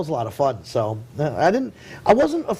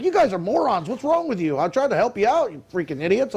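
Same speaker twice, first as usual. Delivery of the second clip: mock yelling; 4 semitones higher than usual. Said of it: "yelling at us".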